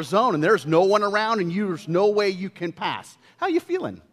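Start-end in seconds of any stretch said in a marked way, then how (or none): 3.4-4.0 teasing question. Real, not acted. Teasing the congregation.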